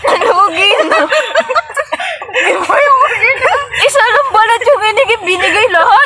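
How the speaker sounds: laughing. Real, not acted. Laughing complaint over lost goods.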